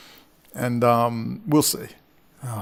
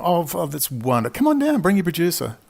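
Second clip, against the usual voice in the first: mock warm welcome; 5 semitones higher than usual. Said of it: "I'll say".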